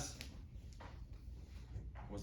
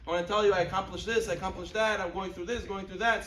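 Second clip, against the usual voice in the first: higher, quick-running list of news; chatty acted update; 4 semitones higher, 4 dB louder than usual. Child updating parents by phone, eagerly chatty. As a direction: imitate an eager child reporting home.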